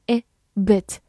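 "bit" with a short, lax i; short ih in "bit", never drawn out to ee; short I vowel. Shown as a demonstration. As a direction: say "bit" with a brief ih, distinct from "beat". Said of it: "字母I发短音A".

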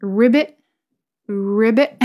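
spoken ribbit, lifting at the end; two separate rising ribbits; imitated frog croak. Shown as a demonstration. Teacher showing how a frog sounds, imitated croak. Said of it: "That's how a frog sound like".

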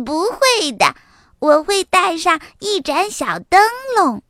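high giggle into a cheerful little-fox voice; giggling. A narrator's reading. Little fox brushing off mama's worry, giggling. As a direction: giggle first, then reassure in a high child voice. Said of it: "小狐狸咯咯笑着说".

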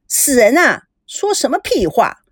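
mildly indignant telling-off; acted scolding. Slapping a crude colleague, scolding. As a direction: scold him for talking rubbish.

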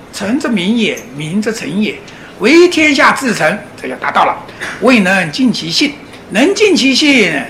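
slow, measured reading of the classic; slow, solemn classical recitation. Acted. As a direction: intone the old text line by line. Recites Zhongyong passage.

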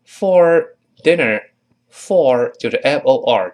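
slow, deliberate spelling out; walk through each letter. Shown as a demonstration. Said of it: "读慢了". (慢慢拼读)

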